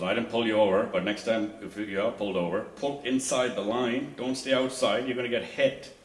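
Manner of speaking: officer yelling. Retold or imitated. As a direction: bark the warning at her like a traffic cop. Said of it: "yelling at her".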